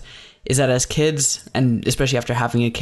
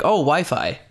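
laughing realization; 2 semitones higher than usual. Retold or imitated. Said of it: "They're like".

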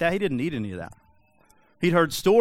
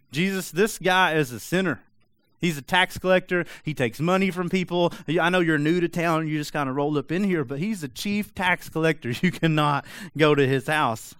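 mock loud complaining; 3 semitones higher than usual. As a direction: protest loudly like an offended religious crowd. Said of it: "like, loudly complaining".

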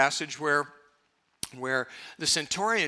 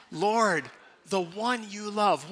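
call and response; 3 semitones higher, slower than usual. Shown as a demonstration. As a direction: say it together, clearly. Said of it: "Let's say it with me".

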